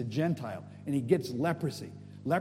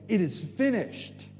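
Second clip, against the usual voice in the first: mild retold cry, drawn out and higher; slow, declared cry; 4 semitones higher, slower than usual. Jesus crying out on the cross, slow mild retold cry. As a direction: declare it slowly, without a full shout. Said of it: "he cried with a loud voice".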